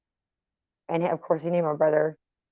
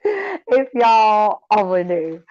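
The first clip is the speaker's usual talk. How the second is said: knowing drawl; 3 semitones higher, 3 dB louder, much slower than usual. Real, not acted. Gloating about the gift.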